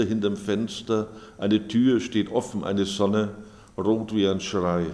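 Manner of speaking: measured, clearly projected poem recital; poetry reading. Acted. Author reading own poems to an audience, measured recital. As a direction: read it out line by line, with deliberate pauses.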